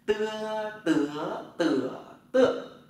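"tưa, tứa, tựa, tựa" high level, rising, dipping, falling; "ưa" tone drill. Shown as a demonstration. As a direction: glide each long "tưa" through the tones. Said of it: "mà nó đọc là ưa". (đọc "tưa" qua bốn thanh điệu)

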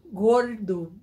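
Paulista R in "gordo", curled back; Paulista accent. Shown as a demonstration. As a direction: say "gordo" with a São Paulo retroflex R. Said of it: "O paulista, ele já, já puxa no R".

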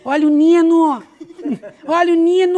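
high, loud call for Nino. Shown as a demonstration. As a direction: shout it out high and bright. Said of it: "ela fala".

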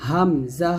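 "হামজা" said separately, without drawing out the final vowel; measured "হামজা", ending without a long pull; unstretched letter. Shown as a demonstration. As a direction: set "হামজা" apart, last syllable not held. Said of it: "এরকম উচ্চারণ করতে হবে".

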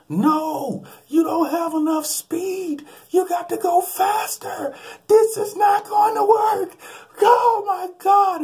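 screamed very high and slow in terror; panicked scream. Retold or imitated. Nephew screaming at the pilot during takeoff, terrified and very high. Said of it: "and he screams".

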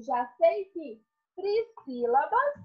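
ordinary delivery

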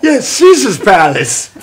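slow stage Irish reply; Irish accent. Acted. Gambling leprechaun admits where he lost gold, in Irish accent. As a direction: draw it out in an Irish lilt. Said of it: "I can do an Irish voice".

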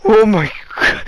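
still laughing. Real, not acted. Recovering from laughing fit.

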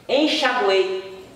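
"enxaguei" spoken slowly, split into its syllables; slow "enxaguei" down so each syllable is heard. Shown as a demonstration. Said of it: "você separou a sílaba".

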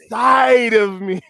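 stretched-out, emphatic reading; slow and intentional. Shown as a demonstration. Finishing her love declaration for Marv, slow and intentional. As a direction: draw it out for the listener. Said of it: "read it slow and intentional".

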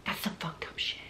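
half-whispered disbelief; hushed aside. Real, not acted. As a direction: drop to a whisper for a shocked aside. Hushed aside in horror at the scene.

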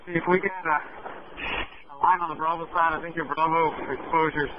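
muffled radio call through a mask; firefighter shouting through mask. Real, not acted. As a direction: shout into the radio from inside the fire. Fire crew radioing from inside.

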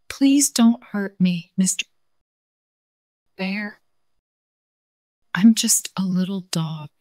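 slow, pleading, ending in a whisper; timid little dog begging for mercy; scared little dog. Acted. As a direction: beg the bear not to hurt you. Frightened dog pleads with bear.

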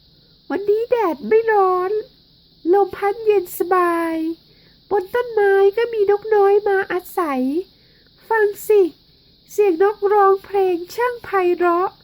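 a gentle teacher inviting the class to sing; kind teacher. Acted. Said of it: "คุณครูพูดว่า". (ครูใจดีพูดกับเด็ก ๆ เสียงสูงอ่อนหวาน)

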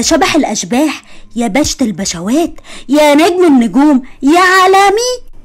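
mock grand praise. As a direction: stretch it out like a fawning toast. Mock flattering the groom.

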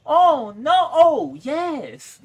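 high, loud game cheer; big, loud, high-pitched exclamation; excited yelling. Real, not acted. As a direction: cry out from dismay into triumph. Excited reaction during a game.

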